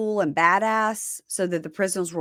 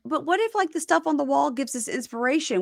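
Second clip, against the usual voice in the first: higher-pitched imitated plea; mock pleading; 5 semitones higher than usual. Inmates asking officers to let them keep wall decorations, mock pleading. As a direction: plead like an aggrieved inmate, lightly mocked.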